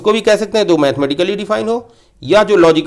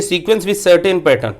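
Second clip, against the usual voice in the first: slow reading; much slower than usual. Shown as a demonstration. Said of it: "देखिए".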